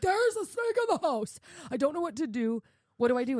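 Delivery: high, loud frantic outburst; retold panic. Daughter phoning dad about a snake, panicked. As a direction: reenact a frantic plea for help.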